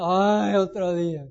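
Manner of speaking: dragging a tired complaint; weary sigh. Shown as a demonstration. Preacher mimics someone dreading the day, weary groan. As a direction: groan out the morning like it's a burden. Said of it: "si vienes desde la cama diciendo".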